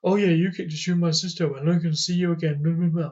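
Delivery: lightly mocking an angry friend; a touch of whiny mimicry; mock complaining friend. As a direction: parody his griping, trailing into blah-blah. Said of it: "and Jamie's like".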